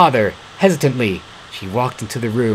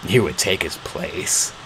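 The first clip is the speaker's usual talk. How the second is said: softer, lower and slow; softened; 4 semitones lower, 6 dB quieter than usual. A narrator's reading. Beast softening his voice toward the girl. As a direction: ease off the growl a little. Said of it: "softening his voice a little".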